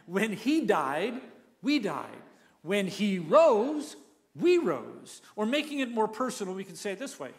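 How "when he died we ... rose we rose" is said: "rose" punched louder, slow and deliberate; with emphasis. Shown as a demonstration. Pastor leading the congregation, slow emphatic chant. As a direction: lean hard on "When he rose". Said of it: "Now say it with emphasis".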